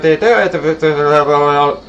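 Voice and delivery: mock auctioneer rattle. Shown as a demonstration. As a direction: try a fast auctioneer call. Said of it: "my second auctioneer voice isn't working".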